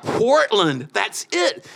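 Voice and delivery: high, loud sudden certainty; a eureka shout to himself; excited decision. Retold or imitated. Deciding at the highway.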